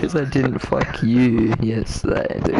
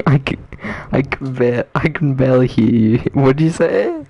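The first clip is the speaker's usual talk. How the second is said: fast, louder, half laughing; raised laughing voice; laughing loud question; 4 dB louder than usual. Real, not acted. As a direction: call over the noise, amused. Laughing, can't hear friend.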